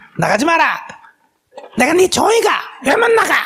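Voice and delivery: high, furious yelling.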